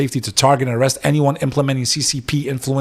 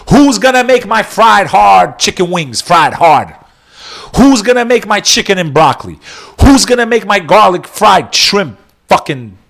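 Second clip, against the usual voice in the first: mock outraged rant; 5 semitones higher, 4 dB louder than usual. Mock outrage over deportation plan.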